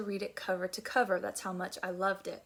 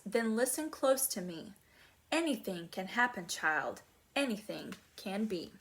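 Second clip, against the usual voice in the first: tender poem reading. Acted. Reads a gentle poem softly.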